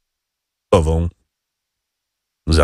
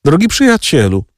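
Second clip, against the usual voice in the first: a touch of lofty scorn, pitched up; royal disdain; 7 semitones higher than usual. A narrator's reading. Lucjan to his friend, mild regal disdain. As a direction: look down on him like a monarch. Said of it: "z monarszą pogardą".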